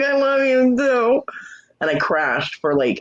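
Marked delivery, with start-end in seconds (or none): 0.0-1.2 high, slow, drawn-out sing-out; retold affectionate goodbye. Woman answering her friend before going to crash, high drawn-out affection. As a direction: stretch it out high, echoing the friend.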